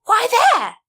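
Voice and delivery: high, loud sharp demand; the driver challenging the plan. Acted. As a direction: insist on an answer. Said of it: "Scootaloo demanded".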